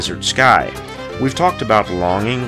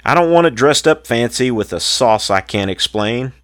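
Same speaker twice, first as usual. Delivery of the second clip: rhythmic rhymed poem recital; cowboy poetry. Acted. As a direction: recite it like a campfire cowboy poet. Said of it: "This cowboy poem is called".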